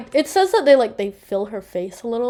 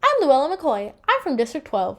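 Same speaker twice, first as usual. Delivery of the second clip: lightly voiced, higher robotic little girl greeting; eerie little girl; 5 semitones higher than usual. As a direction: play a hollow, programmed child. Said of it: "And she goes".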